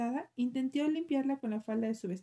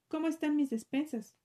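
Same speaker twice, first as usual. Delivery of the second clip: roaring grunting brute; 4 semitones higher than usual. Acted. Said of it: "con voz de trueno".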